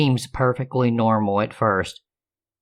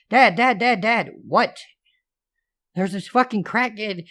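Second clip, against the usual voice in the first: put-on girl panicking to her dad about a stalker; panicked calling; 10 semitones higher than usual. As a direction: scramble for dad's attention, scared.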